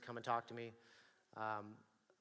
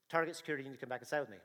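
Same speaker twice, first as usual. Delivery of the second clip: steady, firm announcement to a suspect; a plain first warning at the door; firm security officer; much faster than usual. Retold or imitated. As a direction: state it like an officer stopping someone. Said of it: "and I say".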